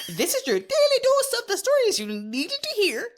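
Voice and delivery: put-on Jamaican accent. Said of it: "do I sound a bit Jamaican".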